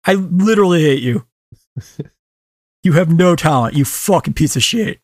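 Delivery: furious rant at a director; ranting anger. Real, not acted. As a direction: tear into him with real fury. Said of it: "I am fucking fuming".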